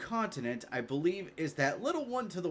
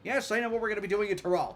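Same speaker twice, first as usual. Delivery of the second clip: her character voice; 5 semitones higher, faster than usual. Acted. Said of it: "should I do her voice now".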